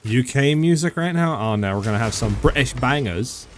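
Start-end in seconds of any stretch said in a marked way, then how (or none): 1.4-3.5 a mock British accent, barely there; lightly put-on British accent, half joking; bad British accent. Streamer jokes about British bangers in a mock British accent. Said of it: "That's a horrible accent".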